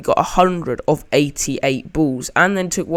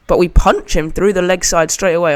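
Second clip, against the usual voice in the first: voice crack; 3 semitones higher, 5 dB louder than usual. Real, not acted. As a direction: voice cracking mid-sentence. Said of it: "that was a pretty bad voice crack".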